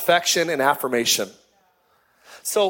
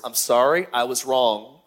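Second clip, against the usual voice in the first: sincere apology; 6 semitones lower than usual. Shown as a demonstration. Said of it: "learn those eight words".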